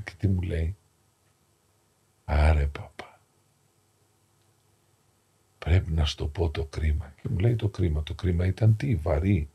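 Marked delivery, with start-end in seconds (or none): 2.2-7.1 hushed, lower confession; confessional whisper. Retold or imitated. Dying man confesses to priest.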